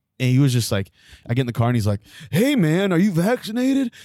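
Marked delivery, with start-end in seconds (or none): 2.3-3.9 put-on Californian dude voice, higher pitch. Retelling what a driver said on pickup: imitating a californian guy. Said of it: "the most Californian person".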